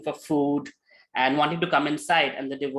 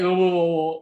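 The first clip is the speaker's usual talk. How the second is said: slurred groaning; 2 semitones higher, 5 dB louder than usual. Retold or imitated. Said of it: "Crazy Peter would talk like".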